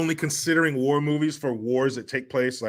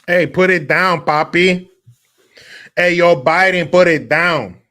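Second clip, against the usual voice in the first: much louder, pushed-up command; mock shouted order; 4 semitones higher, 10 dB louder than usual. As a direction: call it out like a hammed-up demand. Mock shouted orders aimed at Biden.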